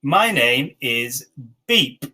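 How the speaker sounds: slow, even dictation pace. Shown as a demonstration. Teacher dictating slowly to online students. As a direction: read it slowly for the class to catch. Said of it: "So I might say to you".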